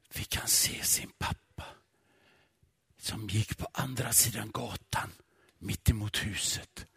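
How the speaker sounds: soft, low, partly whispered storytelling; hushed narration. A narrator's reading. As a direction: draw the listener into a sleeping night street. Quiet night-time story narration. (dämpad, delvis viskande berättarröst)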